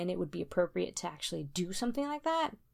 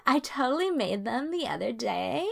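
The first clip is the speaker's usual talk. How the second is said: put-on higher, louder, slow sing-song white girl; 5 semitones higher, 6 dB louder, slower than usual. Friend mocks a white woman renaming churros, put-on white voice. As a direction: ham up a clueless white girl offering snacks. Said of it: "I'm gonna do my white voice".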